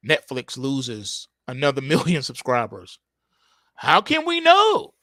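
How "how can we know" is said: mock innocence. Mock Netflix feigned innocence.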